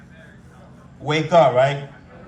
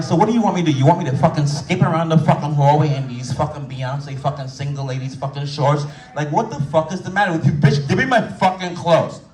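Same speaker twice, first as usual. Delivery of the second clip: mock angry rant. Ranting at nurse over shorts.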